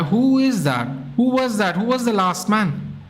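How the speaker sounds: surprised. Real, not acted. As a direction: demand to know who was the last man. Confused by an offside goal.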